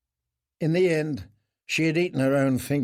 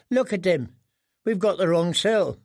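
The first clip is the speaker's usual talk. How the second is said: lightly voiced boy; 5 semitones higher than usual. Boy jailer speaking.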